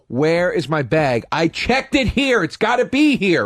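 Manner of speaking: worked-up complaint, not a full scream; retold screaming. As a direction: stretch out each word in indignant protest. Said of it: "I'm screaming at this guy".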